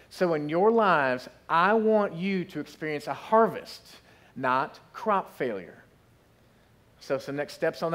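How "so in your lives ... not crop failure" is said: slow preaching cadence. Acted.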